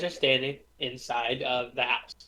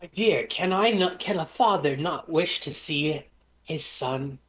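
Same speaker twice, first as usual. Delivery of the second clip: wounded father; 3 semitones higher than usual. Acted. Loki feigns a father's hurt.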